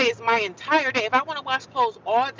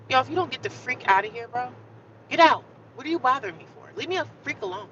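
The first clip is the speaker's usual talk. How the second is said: mock angry outburst, one yelled get out; half-acted rage at the roommate; retold angry telling off; 4 semitones higher, faster than usual. Venting to viewers about the intruding roommate, retold angry yell. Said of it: "I'm just looking at her like".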